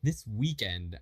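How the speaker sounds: "This weekend" with emphasis on weekend; stress on "weekend". Shown as a demonstration. Teacher showing English topic emphasis, stressing "weekend". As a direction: lean on the word "weekend". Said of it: "like, emphasis on the word".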